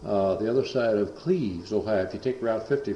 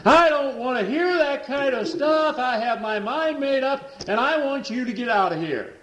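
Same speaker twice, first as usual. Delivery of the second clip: possessed man's voice; 5 dB louder than usual. Retold or imitated. Man orders preacher out.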